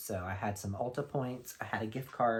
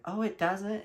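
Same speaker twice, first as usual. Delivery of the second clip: put-on surprised girl; 11 semitones higher, 6 dB louder than usual. Imitating surprised girl in store.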